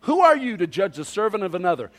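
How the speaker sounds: loud opening, forceful rhetorical question; emphatic. Retold or imitated. Preacher repeating Paul's rhetorical question, very emphatic. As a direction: hammer the scripture home. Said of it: "very emphatically".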